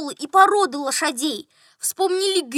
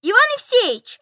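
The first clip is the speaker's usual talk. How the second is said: higher, louder hail; doctor addressing him; 9 semitones higher, 5 dB louder than usual. A narrator's reading. Doctor hailing the steward on the road, addressing him. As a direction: call to him in a high voice. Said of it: "обратился к нему доктор".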